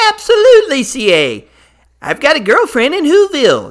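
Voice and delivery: a cheery Grinch greeting his hosts; Grinch character voice. Acted. Host welcomes the Grinch, who answers in a lightly put-on Grinch voice. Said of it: "Grinch answering host".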